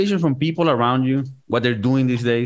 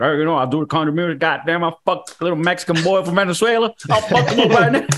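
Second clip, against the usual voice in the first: put-on Southern accent; 4 semitones higher, faster than usual. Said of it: "He's like".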